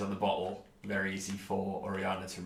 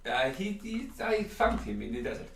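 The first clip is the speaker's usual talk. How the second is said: shopkeeper voice; 4 semitones higher than usual. Acted.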